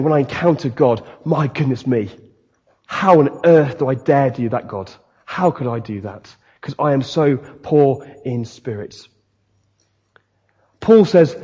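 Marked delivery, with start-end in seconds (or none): 0.0-9.1 hushed, awed self-abasement; acted real humility. Preacher voicing someone who encounters God, quietly humbled. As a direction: speak low and humbly to God. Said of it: "This is real humility of going".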